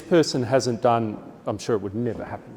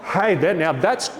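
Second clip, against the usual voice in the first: delighted praise; 4 semitones higher than usual. Shown as a demonstration. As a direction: keep the excitement up. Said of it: "like it's Christmas morning".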